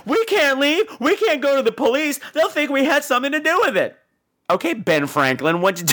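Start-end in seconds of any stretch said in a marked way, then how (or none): 0.1-4.0 mock Tommy. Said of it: "And Tommy's like".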